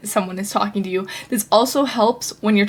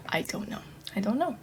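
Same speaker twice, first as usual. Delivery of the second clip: quiet muttered aside; 12 dB quieter, faster than usual. Real, not acted. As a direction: drop to a near-silent murmur. Musing to herself mid-rant.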